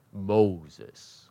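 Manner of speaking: suddenly low "Moses"; oddly understated. Real, not acted. Preacher answering his own question, oddly understated "Moses". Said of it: "I don't know why I said it like that".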